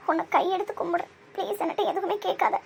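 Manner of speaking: distraught plea to be left alone; high-pitched, tearful begging; tearful pleading. Acted. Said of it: "ஏன் அழுகுற?".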